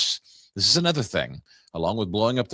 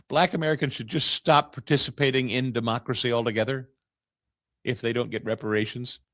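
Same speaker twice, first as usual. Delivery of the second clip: incredulous laugh. Real, not acted. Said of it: "You explain that to me?".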